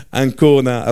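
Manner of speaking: laughing while spelling Ancona. Real, not acted.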